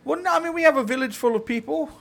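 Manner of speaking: a hammed-up Canadian from up north; mock Canadian accent. Telling Justin where he lives, in a mock Canadian accent.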